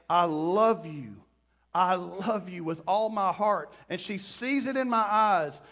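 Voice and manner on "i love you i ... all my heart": slow, tender declaration of love; heartfelt, quivering. Acted. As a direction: say it slowly to your wife, meaning every word. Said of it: "she hears the quiver in my voice".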